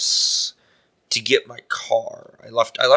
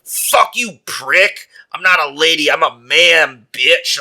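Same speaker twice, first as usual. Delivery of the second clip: higher-pitched mock outburst; retold angry snapping; 4 semitones higher, 3 dB louder, slower than usual. Refused hitchhiker snaps at the man, mock-furious. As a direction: act out someone suddenly losing their temper. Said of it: "And then she snapped".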